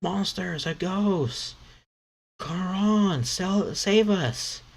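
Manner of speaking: hammed-up high kid screams; panicked kids screaming. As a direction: scream for rescue like terrified kids. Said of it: "They start screaming".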